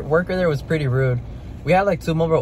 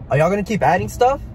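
mocking the worker; 6 semitones higher than usual. Retelling the rude McDonald's worker, mock snide voice.

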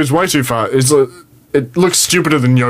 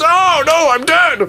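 high, flat comic "I'm dead"; deadpan mock death; mock dying Jedi; 14 semitones higher, much slower than usual. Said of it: "And he goes".

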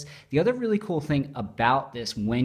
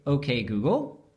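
talking to voice assistant; 2 semitones higher than usual. Shown as a demonstration. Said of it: "you can just say".

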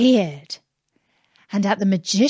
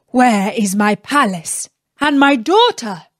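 grand languid royal commands; 4 dB louder than usual. Acted. Sultan accuses Aladdin.

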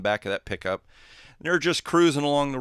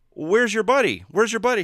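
higher, louder frantic repeated question; panicked shout; 10 semitones higher, 8 dB louder than usual. Acted. Driver on shore yells for missing boy, panicked. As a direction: yell it out in alarm.

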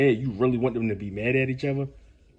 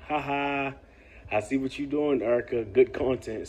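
mock easygoing viewer. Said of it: "Something like that".

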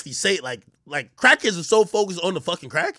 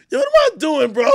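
mock self disgust; 8 semitones higher than usual. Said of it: "you're disappointed".

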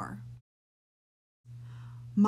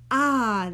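satisfied sigh; 4 semitones higher, 7 dB louder than usual. Acted. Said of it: "sighing a confident, "job well done" sigh".

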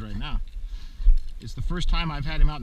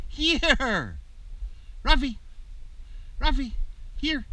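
calling the dog; 11 semitones higher, much slower than usual. Real, not acted. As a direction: call him in from across the field. Calling puppy back.

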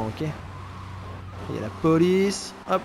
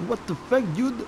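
mock startled victim; 7 semitones higher, 4 dB quieter than usual. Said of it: "Je sais pas comment on dit".

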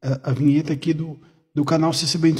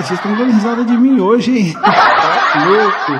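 laughing; 7 semitones higher, 8 dB louder than usual. Real, not acted. Teased by soundboard laughs.

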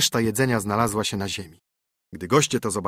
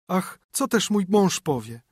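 lament; 8 semitones higher than usual. A narrator's reading. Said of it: "zawołała".

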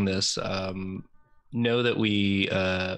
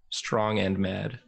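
slow dopey Homestar voice; raging gamer; 3 semitones lower, slower than usual. Pretend. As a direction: say it slow and dim, proud. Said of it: "Popular Homestar character".

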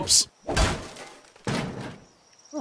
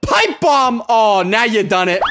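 gleeful threat; 6 semitones higher, 6 dB louder, slower than usual. Acted.

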